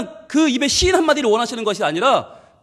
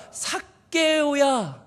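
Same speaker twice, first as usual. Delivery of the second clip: tender call; 3 semitones higher, 4 dB quieter, much slower than usual. Acted. Jesus calls Zacchaeus tenderly.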